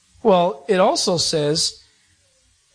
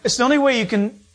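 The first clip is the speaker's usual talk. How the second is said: talking through real laughter; amused, higher voice breaking into laughs; laughing; 4 semitones higher, faster than usual. Real, not acted. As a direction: crack up at your own joke mid-sentence. Laughing at his own TV joke.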